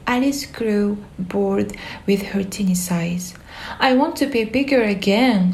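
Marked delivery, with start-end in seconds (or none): 3.9-5.5 mild mock shout. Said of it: "she shouted".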